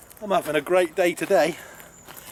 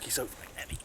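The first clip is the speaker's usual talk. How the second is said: strained, out of breath; 13 dB quieter, faster than usual. Real, not acted. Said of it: "God, I can hardly talk".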